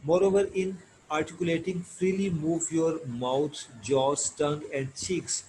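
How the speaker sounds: slow, deliberate textbook read-aloud. Acted. Teacher reading English lesson text to students, slow measured reading. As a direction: read it out slowly, phrase by phrase.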